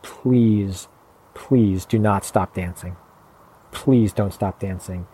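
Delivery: slow, drawn-out entreaty, imitating her; a measured, heartfelt imitation of pleading; earnest plea. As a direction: retell her plea slowly and sincerely. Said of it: "the way that she said it, her voice intonation, the energy in her".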